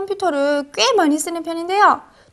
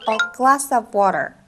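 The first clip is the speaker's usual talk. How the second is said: slow demo; 5 semitones lower, much slower than usual. Shown as a demonstration. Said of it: "물 한 잔을 영어로 어떻게 말할까요".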